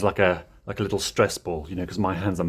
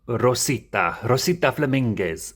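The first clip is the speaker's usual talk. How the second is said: lightly rolled Spanish name; elegant Spanish accent. Acted. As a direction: say it with a slight Spanish flourish. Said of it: "like, a really, um, elegant".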